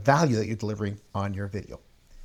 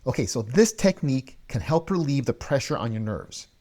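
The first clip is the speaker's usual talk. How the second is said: a bit more lift and interest in the voice; brighter, more engaging delivery; lifted, engaged tone; 2 semitones higher, 3 dB louder than usual. Shown as a demonstration. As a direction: say it like you mean it, with more energy. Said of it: "let me repeat that with changing my tone".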